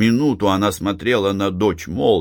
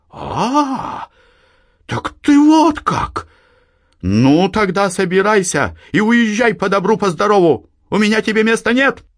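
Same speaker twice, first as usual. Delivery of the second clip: put-on high, loud old woman throwing her out; furious mother; 14 semitones higher, 4 dB louder than usual. A narrator's reading. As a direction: drive her daughter out of the house. Mother voiced in the story. (мать гневно выгоняет дочь)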